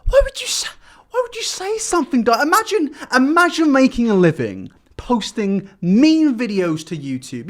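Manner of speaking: hammed-up wounded whine; mock crying. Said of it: "that's horrible".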